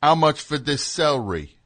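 put-on English thug accent; impression of a drummer. Drummer asking a greengrocer about produce, thuggish English accent. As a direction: talk like a Black Country thug. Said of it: "he would talk like a thug".

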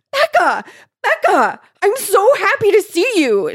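high, loud gushing squeal. A narrator's reading. Girl hugging Becca tight, squealing with joy. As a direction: squeal it with over-the-top joy. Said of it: "she squealed".

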